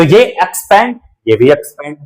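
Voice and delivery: एक्सपैंड both times with the same front vowel, like "expend"; traditional pronunciation. Shown as a demonstration. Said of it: "traditional pronunciation करोगे तो".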